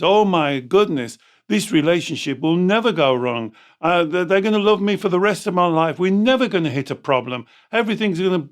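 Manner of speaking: hammed-up rush of fanciful hope; mock starry-eyed optimism. Coach mimics a client dreaming of perfect love, mock gushing. Mocking fanciful relationship ideas.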